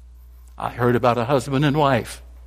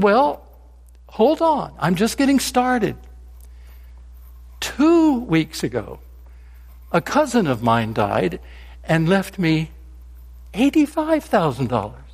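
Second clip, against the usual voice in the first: lightly voiced Frank, pitched higher; a hint of a put-upon friend telling his news; Frank in a joke; 4 semitones higher than usual. Frank tells his lunch friend about his inheritance, lightly acted.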